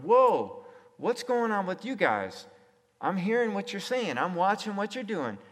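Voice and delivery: a voiced crowd going whoa at the change; amazed onlookers.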